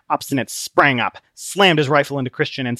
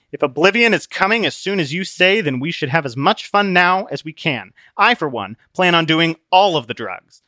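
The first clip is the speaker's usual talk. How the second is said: put-on raised, reckless party-boy voice; Obstinate, carefree; 5 semitones higher, 4 dB louder than usual. Obstinate urging fun before annihilation, carefree. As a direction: shrug off doom gleefully.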